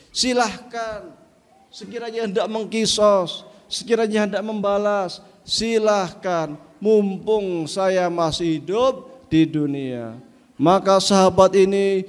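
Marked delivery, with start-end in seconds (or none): 0.1-10.2 humble invitation. Acted. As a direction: invite him gently to strike. Prophet bares himself, invites.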